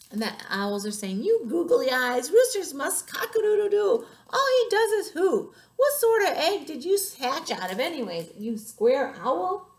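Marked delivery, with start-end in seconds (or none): 1.2-9.7 high, loud, indignant hen; insulting scolding. A narrator's reading. Hens mock the owl who cannot crow, loud scornful scolding. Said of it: "that must be an insult".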